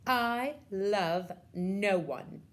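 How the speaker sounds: slow, loud haughty declaration; arrogant. Acted. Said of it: "says arrogantly".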